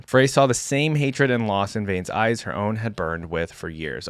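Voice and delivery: measured dramatic lore reading; story narration. A narrator's reading. Reader telling viewers of Vayne's training, story narration. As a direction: read it out like a fantasy tale. Reads champion lore aloud.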